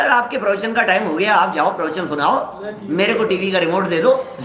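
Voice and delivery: mock-polite, sugary brush-off; sweet-talking. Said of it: "इतना प्यार से बोल रहा है".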